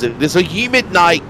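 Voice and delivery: blocked nose, stuffy voice. Real, not acted. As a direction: talk through a stuffy nose. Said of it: "That's why I sound so stuffy".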